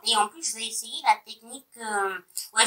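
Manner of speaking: roomy bathroom echo; speaking in a tiled bathroom. Real, not acted. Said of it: "je vous parle dans ma salle de bain".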